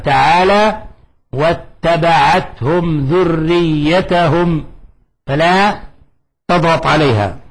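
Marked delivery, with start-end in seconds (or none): 1.3-4.7 very slow chanted verse; slow recitation. Shown as a demonstration. Teacher recites the example verse, slow chant. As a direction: stretch the verse out calmly. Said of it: "كما في قوله".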